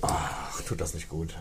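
breathy whisper, close to the mic; right in your ear. Real, not acted. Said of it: "ganz nah am Mikro". (ganz nah am Mikro geflüstert)

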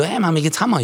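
pumped-up joke character; overmotivated guy. Acted. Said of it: "so total übermotiviert".

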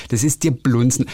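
lightly put-on Viennese accent; Viennese dialect. Shown as a demonstration. Repeating the Viennese saying, light Viennese accent. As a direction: give the phrase a Viennese colour. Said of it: "kann man das, äh, wienerisch sagen".

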